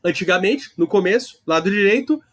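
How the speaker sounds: each phrase lifted, a rising tune; teacher drilling a memory trick; emphatic mnemonic. Shown as a demonstration. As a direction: stress antigamente, começo, direito. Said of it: "Eu tô fazendo uma mnemônica".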